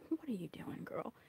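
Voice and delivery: half-whispered teasing aside. Real, not acted. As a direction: lean in and whisper it.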